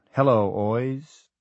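put-on BOYS said as "oys", the B dropped; slow "Hello, oys" through unmoving lips, no B; lips not moving. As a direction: ventriloquist losing the B in "boys". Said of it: "trying not to move his lips".

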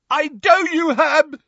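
furious roar, very high; Neville. A narrator's reading. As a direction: roar back at the tormentor. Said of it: "roared Neville".

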